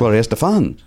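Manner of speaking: the surname leaning on its last A; accented final A. Pretend. Host repeats the singer's name, the surname accented on the last A. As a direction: put the accent on the end of the surname. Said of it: "an accent over the A at the end".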